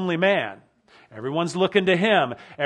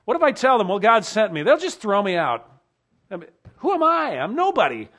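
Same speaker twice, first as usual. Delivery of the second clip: desperate protest; 4 semitones higher, 4 dB louder than usual. Acted. Voicing Moses' protest to God.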